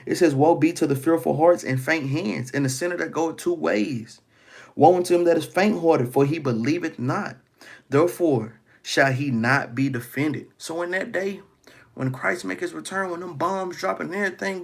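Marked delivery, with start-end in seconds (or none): 0.3-10.5 louder, solemn scripture reading; booming pulpit reading of scripture. Acted. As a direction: declaim the verse like a preacher. Reads scripture aloud, raised.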